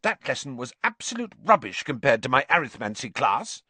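high-pitched, heated tirade; indignant outburst. A narrator's reading. Girl stung by taunt about being rubbish, indignant. Hermione snaps after nerve is touched.

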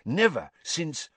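a touch of panic he tries to hide; agitated, lips still. A narrator's reading. Karkaroff showing Snape the mark, agitated and hushed. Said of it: "not to move his lips".

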